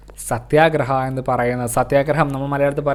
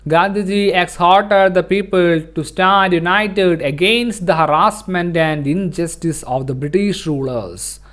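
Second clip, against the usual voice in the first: textbook read-aloud; much slower than usual. Acted. Teacher reading the textbook to students, slow read-aloud. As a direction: read it out slowly for a class.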